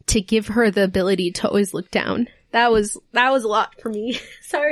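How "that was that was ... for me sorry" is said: tearful, ending in an apologetic laugh; really choked up, laughing it off at the end; close to tears. Real, not acted. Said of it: "Sorry for crying".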